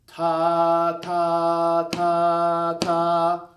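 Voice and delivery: each ta punched loud and detached; separated ta syllables. Shown as a demonstration. Teacher showing students how to tongue notes. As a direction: say ta ta ta ta, strongly separated. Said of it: "by saying ta".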